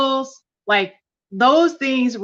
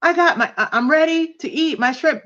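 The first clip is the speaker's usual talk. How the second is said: gleeful retold excitement, pitched way up; excited about shrimp; 6 semitones higher than usual. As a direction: act out the thrill of getting your treat. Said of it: "So I'm like".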